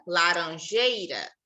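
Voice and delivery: laranjeira drawn out very slowly; very slow teaching word; slow example word. Shown as a demonstration. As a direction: say laranjeira slowly, each syllable clear.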